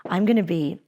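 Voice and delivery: calm, level "I'm gonna be"; serious and calm. Shown as a demonstration. Speaker demoing a serious claim to students, calm and level. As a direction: say it steady and serious. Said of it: "if I look at you really seriously".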